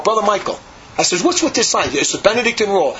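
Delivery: indignant challenge, pitch lifted, mildly acted; retold angry protest. The speaker confronting Brother Michael about the rule, retold angry protest. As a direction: replay confronting him over the silence rule. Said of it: "Then I was so angry".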